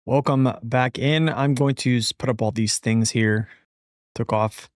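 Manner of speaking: talking with half a numb mouth; slightly slurred numb speech; numb mouth after dentist. Real, not acted. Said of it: "half of my mouth is literally numb".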